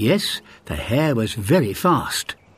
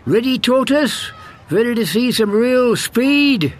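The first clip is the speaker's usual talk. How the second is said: high, bragging hare voice; boastful hare; 10 semitones higher than usual. A narrator's reading. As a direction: brag like the cocky hare. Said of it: "said the hare".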